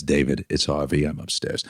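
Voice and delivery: a lightly voiced, soft, breathy-edged caller; Harvey Fierstein. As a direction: drop to a near-whisper on "I'm upstairs". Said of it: "why do I make him sound like Harvey Fierstein".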